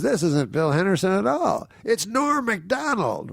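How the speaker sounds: high, grand emcee voice slowing on the name; mock announcement. Organizer announces the real name.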